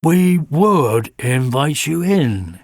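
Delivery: slow, gentle reassurance; a touch of gentleness. Acted. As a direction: ease it out kindly and slowly. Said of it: "he said gently".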